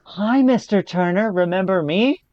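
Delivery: quoting Pete. Retold or imitated. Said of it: "and goes".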